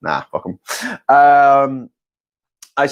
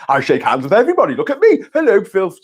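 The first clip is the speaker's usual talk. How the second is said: Boris Johnson; 4 semitones higher than usual. Retold or imitated. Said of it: "we have Boris Johnson saying".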